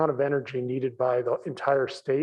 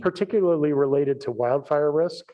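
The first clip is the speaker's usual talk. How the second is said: repeated louder for a listener; 2 semitones higher, 5 dB louder than usual. Real, not acted. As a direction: say it again, louder and clearer. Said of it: "I'm sorry?".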